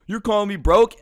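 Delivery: high, loud disbelief; can't believe what he just said; outraged you're calling me broke; incredulous. Retold or imitated. Incredulous at customer's accusation.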